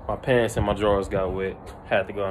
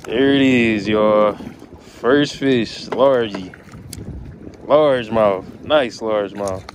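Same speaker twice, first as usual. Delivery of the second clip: loud, thrilled announcing; happy, louder fish brag; excited; 5 dB louder, slower than usual. Real, not acted. Landing first fish.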